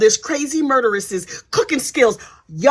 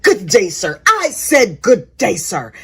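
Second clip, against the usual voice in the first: mock haughty dismissal; 5 semitones lower, slower than usual. Lori dismissing brother.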